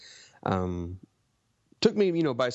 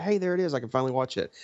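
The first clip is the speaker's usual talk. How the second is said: high, bright burst of delight; thrilled to find it at last; excited; 4 semitones higher, faster than usual. Retold or imitated. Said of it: "I was like".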